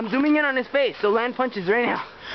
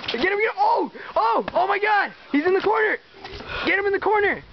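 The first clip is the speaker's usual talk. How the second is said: cheering on a fight; 8 semitones higher, faster than usual. Real, not acted. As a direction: yell him on, buzzing with excitement.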